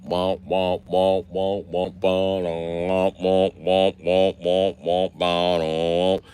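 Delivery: drawn-out, rhythmic womp sounds; imitated womp noises. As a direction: chant out slow mock womps. Mimicked womp noises opening a story.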